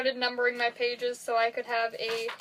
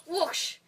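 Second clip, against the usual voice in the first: quick mock whoosh noise; spoken swoosh; imitated whoosh; 5 semitones higher, 3 dB quieter than usual. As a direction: make a whooshing sound effect.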